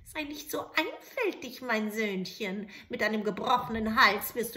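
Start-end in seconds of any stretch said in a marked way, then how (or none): 0.1-2.7 mocking witch. Witch mocking the soldier's fear. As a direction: tease him for being simple.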